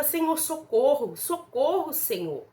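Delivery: pleading mock cry for help, drawn out; retold desperate cry. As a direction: call out slowly in pleading, without full shouting. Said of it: "Eu gritava".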